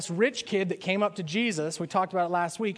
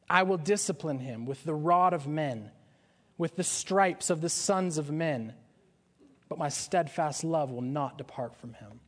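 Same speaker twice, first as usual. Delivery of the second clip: measured, solemn reading of the verses; scripture reading. Acted. Preacher reads God's promise to David, solemn. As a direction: read the promise with weight.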